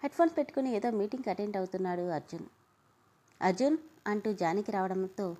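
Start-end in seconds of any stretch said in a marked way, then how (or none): 3.4-3.8 calling out. Acted. Mother calling her son away from his meeting, loud call. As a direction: call his name up and out, louder.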